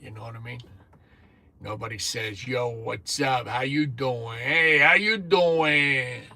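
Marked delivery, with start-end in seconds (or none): 2.5-6.2 Jersey greeting. Retold or imitated. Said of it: "I don't think anybody talks like that in North Carolina".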